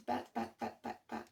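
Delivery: breathy murmur while flipping pages; whispered to herself. Real, not acted. Reader searching her card book, whispering under her breath. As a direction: whisper the word to yourself as you search.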